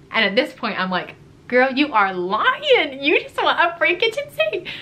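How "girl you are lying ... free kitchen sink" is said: high, drawn-out exasperated accusation; mock call-out. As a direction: call out the liar in a sing-out high voice. Acted inner call-out of a liar.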